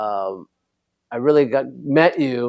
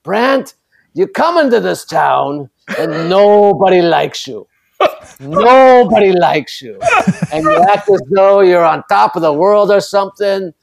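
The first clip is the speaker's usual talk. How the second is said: higher, slow imitation of a thick Jewish accent; old Jewish deli accent; 5 semitones higher, 5 dB louder than usual. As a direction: do the teenager who sounds like an old New York deli man, Jewish accent. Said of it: "he had a thick Jewish accent for a seven".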